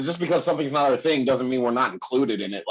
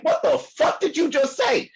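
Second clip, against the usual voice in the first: exasperated incredulous question, pitched way up; stunned disbelief; 12 semitones higher than usual. Retold or imitated. Reacting to dumb house guest.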